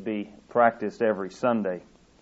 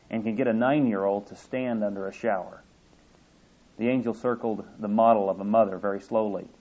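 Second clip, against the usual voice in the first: expressive reading aloud of a story, voicing the Lord and the angel; storyteller voice from the pulpit. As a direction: read the tale warmly to the congregation. Reads story aloud in sermon.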